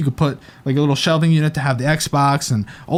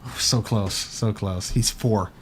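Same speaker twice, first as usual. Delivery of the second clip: quiet teasing; 6 semitones lower, 8 dB quieter, slower than usual. Pretend. Joking wrong age guess.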